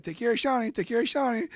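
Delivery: loud pleading quote. Retold or imitated. Girlfriend's parents pleading.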